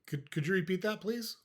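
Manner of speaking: polite question climbing high on please; matter-of-fact. Shown as a demonstration. Coach shows how to answer a swipe, matter-of-fact. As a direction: ask plainly, as if you simply missed it. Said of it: "Just very matter-of-factly".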